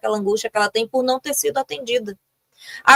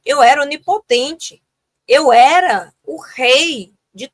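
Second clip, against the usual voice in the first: put-on grandiose child; 5 semitones higher than usual. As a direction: puff up like the ruler of all galaxies. (a criança onipotente falando de si, grandiosa e um pouco mais aguda)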